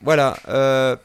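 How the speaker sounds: rough, cracking voice; talking through a worn-out hoarse voice. Real, not acted. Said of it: "écouter ma voix cassée". (voix cassée)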